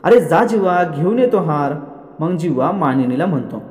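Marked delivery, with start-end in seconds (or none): 0.0-1.7 mild raised-voice order, higher at the start; lightly acted aunt's yell; retold yell. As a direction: scold him into hurrying off. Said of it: "वसु आत्या ओरडते".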